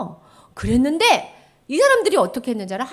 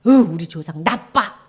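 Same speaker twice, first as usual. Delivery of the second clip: sulky blame; 4 semitones lower, 8 dB louder, slower than usual. Acted. Wrong way: blaming ancestors.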